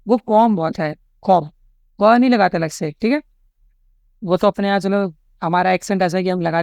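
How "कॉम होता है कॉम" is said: कॉम ending on m, with no b sound; silent final B. Shown as a demonstration. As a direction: say कॉम as "kom", lips closed on the m. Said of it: "जो correct pronunciation है कॉम का".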